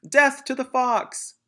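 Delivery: slow, high, loud battle cry in a put-on voice; shout. Bunce shouting his threat at the fox, slow and loud. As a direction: bellow it like a war cry. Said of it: "shouted Bunce".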